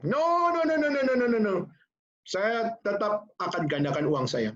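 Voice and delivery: high, stubborn string of no's; emphatic refusal. Retold or imitated. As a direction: refuse flatly, voice jumping up high. Rich man refusing the pastor.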